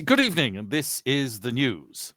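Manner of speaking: lightly voiced posh BBC announcer, slow; a hint of a formal BBC news read; mock newsreader opening the news. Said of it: "B B C".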